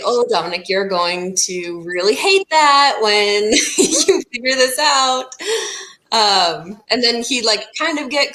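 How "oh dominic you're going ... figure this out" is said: giggling. Retold or imitated. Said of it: "I would just giggle and say".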